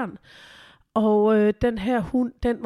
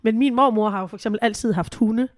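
usual speaking voice

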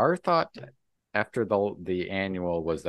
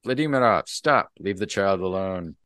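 raised, louder call of stop; retold call to stop; 3 semitones higher, 6 dB louder than usual. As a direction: shout him down as you run out. Mironenko runs out calling a halt.

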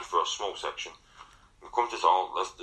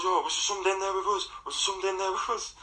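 spooked rapid question; 13 semitones higher, faster than usual. Retold or imitated. Retelling spooked friend's question.

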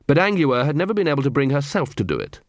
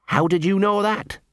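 surprised; 8 semitones higher than usual. Acted. Dog surprised by Angua's guess.

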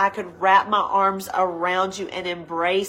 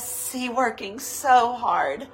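voice of the Lord; 3 semitones higher than usual. Acted. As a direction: call each one gently home. Voicing the Lord's call.

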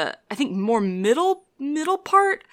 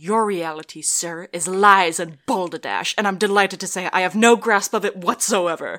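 Munchausen. Acted. Munchausen retorting to the sceptic, lightly theatrical. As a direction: answer with a touch of theatrical defiance. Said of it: "And then Munchausen says".

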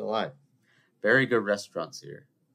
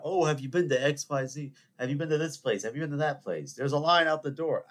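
mock eager chatter; 6 semitones higher than usual. Mimics people hyping new restaurants.

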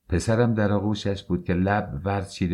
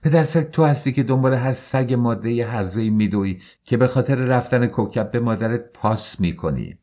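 loud, higher shouted accusation; shouting; 4 semitones higher, 4 dB louder than usual. Acted. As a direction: scream the accusation at him. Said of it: "فریاد زد".

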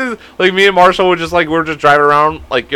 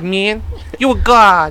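higher, odd-timbred hype voice; rapper impression; 5 semitones higher, slower than usual. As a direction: gush praise like a starstruck rapper. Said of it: "That's my rapper impression".

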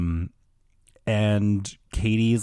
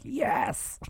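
eager agreement; 6 dB quieter than usual. Retold or imitated. Friends eagerly agree to a prank.

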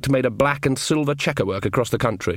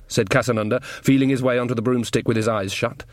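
normal talking voice

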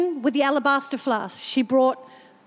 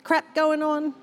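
grateful prayer; 4 semitones higher than usual. Shown as a demonstration. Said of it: "every morning and say".

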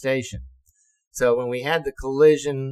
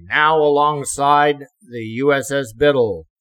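louder mock intercom call; ship announcement; 7 dB louder than usual. Ship's PA announcing refuelling, mock announcement.

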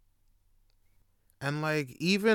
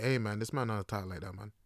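puzzled Jamaican Patois, with questioning grunts; Jamaican local; 5 dB quieter than usual. Acted. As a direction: grumble suspiciously in a Jamaican accent. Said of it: "everyone will know, it's like".

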